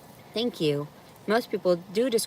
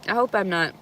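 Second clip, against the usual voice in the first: talking while chewing; mouth full. Real, not acted. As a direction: speak through a bite of food. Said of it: "I'm sorry I'm munching".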